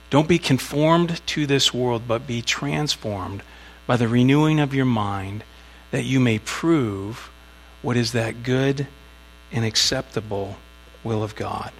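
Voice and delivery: scripture reading. Acted. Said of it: "verse two says".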